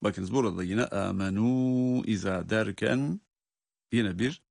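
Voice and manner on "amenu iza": "amenu iza" with the u held long; long madd. Shown as a demonstration. Teacher pointing out the madd rule, "amenu" drawn out. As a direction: stretch the end of "amenu" before "iza". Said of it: "meddi munfasıl kuralını görüyoruz".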